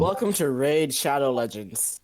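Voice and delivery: slow promo welcome; mock ad-read voice; mock sponsor announcer.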